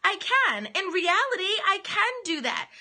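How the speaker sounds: a touch of defiant swagger; defiant reply. Retold or imitated. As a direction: rise in defiance, word by word. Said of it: "And you're saying".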